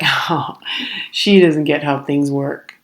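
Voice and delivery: mock pitying, drawn-out jab; imitating snide staff, slowly; passive-aggressive. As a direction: talk about the customer as if clueless. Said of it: "they did this passive aggressive".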